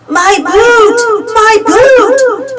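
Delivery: high, loud, wailing ghost moan. A narrator's reading. Ghost of Red Boots moaning for her boot. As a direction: moan it eerily. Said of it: "they heard the ghost moan".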